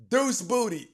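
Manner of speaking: high, loud whoop breaking into laughter; gleeful outburst. Real, not acted. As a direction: blurt the silly nickname loudly, cracking up. Repeats joke nickname, cracking up.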